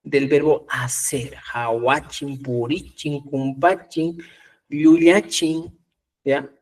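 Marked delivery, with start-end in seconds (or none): 1.5-5.8 slow demo word. Shown as a demonstration. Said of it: "El chi siempre va a tener esa función".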